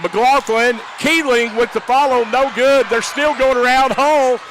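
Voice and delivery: rapid-fire rising play-by-play; fast auctioneer rush. Real, not acted. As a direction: rattle it off like an auctioneer. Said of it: "you nearly became an auctioneer right there".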